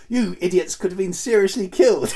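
high, hammy stern teacher telling off; overacted headmaster. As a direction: ham up a scolding headmaster. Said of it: "the wonderful outtake".

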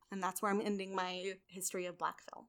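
soft whisper to close the segment; whispered sign-off. Real, not acted. Host whispering the end of the segment. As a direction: breathe the closing line.

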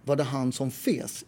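clipped-free Stockholm pronunciation, slow; Stockholm Swedish. Shown as a demonstration. Telling friends how Stockholmers say it, slow Stockholm accent. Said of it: "And in Swedish you would say".

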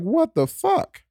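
very high, slow, stretched out; stunned disbelief. Retold or imitated. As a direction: let it climb in total shock. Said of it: "I'm just like".

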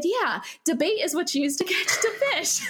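lightly voiced schoolboy, sure of his answer; confident boy. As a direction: answer like a cocksure kid, lightly acted. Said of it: "a boy very confidently raise his hand".

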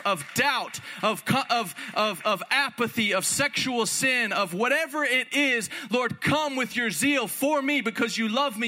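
rising, pleading prayer that builds in force; fervent prayer. Shown as a demonstration. Preacher praying aloud to show the church, fervent. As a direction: cry out to God like you mean it. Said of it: "get on your knees and say".

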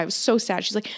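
ordinary delivery

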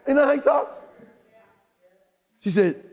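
ordinary talk, nothing marked

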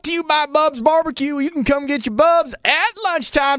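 hammed-up sponsor plug; radio ad voice. Mock radio ad read.

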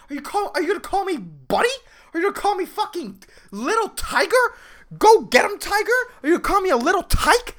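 high-pitched, incredulous ranting questions; mock him in disbelief; exasperated mockery. Imagined rant at the coworker.

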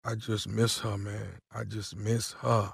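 pining caller confesses he misses the wife, slow and soft; lusty longing. Acted. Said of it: "you sound too f***ing lusty".

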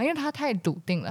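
ordinary delivery

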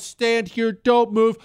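high-pitched, forceful barked orders; imitating in-your-face yelling; yelling drill instructor. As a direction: berate a recruit like a drill instructor. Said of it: "they're yelling so loud".

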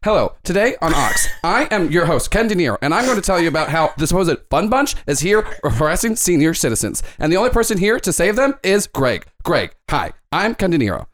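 lightly voiced pompous TV reporter; a hint of a smug news anchor introducing his segment; Ken De Niro reporter voice. Game master voicing the Ox News host interviewing Greg, lightly pompous anchor. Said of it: "They go".

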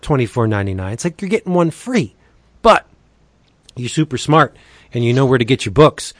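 upbeat pitchman read, leaning on the deals; breezy promo voice with punchy price reveals. Acted. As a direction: sell the comics like a radio spot host. Monthly DCB sponsor spot.

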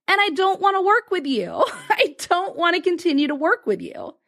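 laughing through the no; mock refusal with a laugh and a catch. Client's refusal, retold with laughter.

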